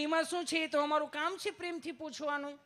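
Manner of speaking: sweet nurse. Retold or imitated. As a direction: play the doting nurse. Nurse voiced in a story. (નર્સનો ખૂબ ઊંચો મીઠો અવાજ)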